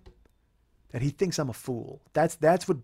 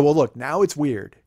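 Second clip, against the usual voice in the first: loud, drawn-out 'now it's weird'; 5 dB louder, slower than usual. Retold or imitated. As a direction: announce it loudly and slowly, retelling it. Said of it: "I even said that out loud".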